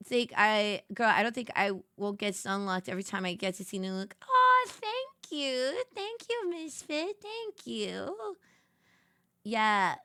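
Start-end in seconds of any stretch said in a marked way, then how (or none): 4.3-8.4 touched thanks. Real, not acted. Thanking chatter for compliment.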